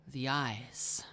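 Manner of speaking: low, hushed realisation; dawning dread, barely voiced; awed officer's whisper. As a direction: let the words drop into a whisper. Frightened officer recognises the danger.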